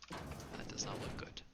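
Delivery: slow worried whisper. Real, not acted. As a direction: breathe it out slowly, worried. Worried aside, unvoiced.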